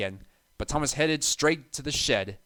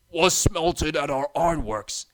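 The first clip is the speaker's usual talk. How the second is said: sly; 3 semitones higher, 5 dB louder than usual. A narrator's reading. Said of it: "finished Bert".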